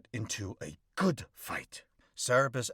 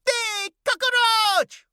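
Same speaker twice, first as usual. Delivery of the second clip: high, slow, drawn-out shock; stunned gasp; 10 dB louder, much slower than usual. Acted. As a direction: let the name fall out in disbelief. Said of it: "jaw drops all the way to the floor".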